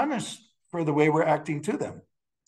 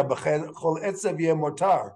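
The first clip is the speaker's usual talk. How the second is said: slow quoted verse; slower than usual. Retold or imitated. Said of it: "like it says in the Tanya".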